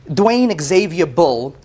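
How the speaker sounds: slow, deliberate reading of the full name; name spelled out slowly. Real, not acted. Plaintiff reading the license to the judge, slow and deliberate. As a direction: lay out each part of the name slowly.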